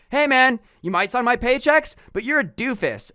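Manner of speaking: high, loud, smug dismissal; cocky brat. Pretend. Grown kid sneering at his boss at work, loud and smug.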